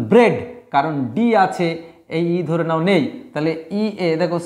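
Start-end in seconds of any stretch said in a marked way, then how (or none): 0.1-0.3 ব্রেড with a short "e". Shown as a demonstration. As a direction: say ব্রেড to rhyme with "bed". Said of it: "আর এটার উচ্চারণ ব্রেড".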